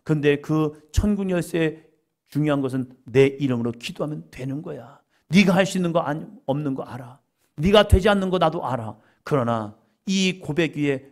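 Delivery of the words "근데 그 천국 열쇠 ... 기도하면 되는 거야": ordinary talk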